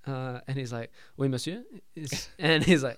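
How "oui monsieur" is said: lightly put-on French accent; imitated French maitre d'. Maitre d' greeting Peter, in an imitated French accent. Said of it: "he plays a French person very well".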